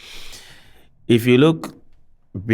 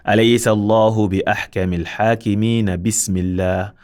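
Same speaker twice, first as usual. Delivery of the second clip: wrong joined recitation; much faster than usual. Shown as a demonstration. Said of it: "We cannot say".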